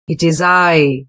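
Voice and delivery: understated furious big goat; mild mock anger of the big billy goat; fierce furious voice. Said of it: "in a fierce, furious voice".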